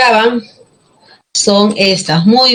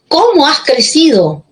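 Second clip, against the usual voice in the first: cómo said prominent, falling; emphasis on cómo; 3 semitones higher than usual. Shown as a demonstration. Teacher shows where the emphasis falls, on cómo. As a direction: lean on cómo in the question. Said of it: "El énfasis está en ese cómo".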